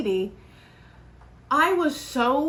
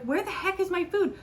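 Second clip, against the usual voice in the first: exasperated aside; 7 semitones higher, 3 dB quieter than usual. Retold or imitated. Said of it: "I'm just like".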